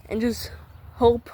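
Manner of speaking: winded, rushing the words; out of breath. Real, not acted. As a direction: talk fast while catching breath. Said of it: "Sorry, I'm out of breath".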